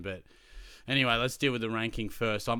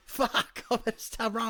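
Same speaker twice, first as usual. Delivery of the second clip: much higher, louder breathy curse; panicked curse; 13 semitones higher, 4 dB louder than usual. Retold or imitated. Teacher alone in the dark cursing in panic. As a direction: gasp it out in fright.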